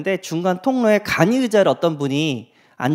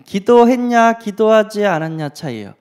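ordinary talk

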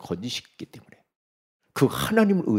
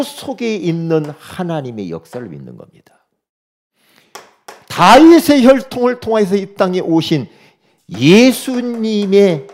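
fervent preaching; 8 semitones higher, 6 dB louder than usual. Acted. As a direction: preach it with full conviction. Preaches at full force. (힘차게 외치는 설교)

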